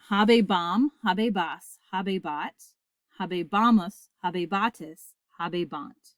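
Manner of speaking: measured drill, each form set apart; conjugation recited aloud. Shown as a demonstration. Latin teacher conjugates habeo together with students, reciting. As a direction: lead the class through the forms, easing down to the last. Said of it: "conjugate habeo together aloud".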